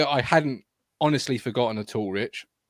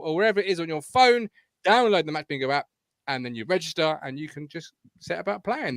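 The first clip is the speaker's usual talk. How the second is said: sponsor ad read; 3 semitones higher than usual. Acted. Presenter reading the sponsor plug to viewers, upbeat ad read. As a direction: sell the bingo app to viewers.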